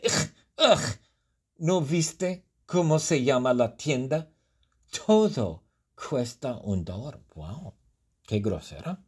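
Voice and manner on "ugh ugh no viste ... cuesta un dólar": high, scornful clerk voice with a groan; rude shop clerk. Acted. Shop clerk snubs Jabari, high and rude. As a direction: brush off the customer like a bored cashier. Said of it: "un poco grosera, me responde".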